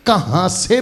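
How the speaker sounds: कहाँ से said slowly, with से picked out; stress on से. Shown as a demonstration. Preacher correcting the congregation's hearing of his question, stress on से. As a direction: lean on the word से in कहाँ से. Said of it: "मेरा शब्द सुनो".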